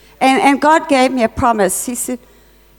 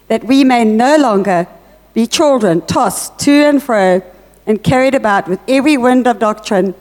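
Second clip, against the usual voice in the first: scripture reading. Acted. Preacher reading Ephesians to the congregation, solemn scripture reading. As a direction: read the verses out with weight.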